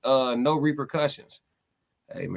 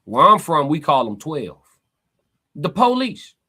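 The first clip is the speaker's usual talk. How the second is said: emphatic; 6 dB louder, slower than usual. Real, not acted. Emphatic point to chat.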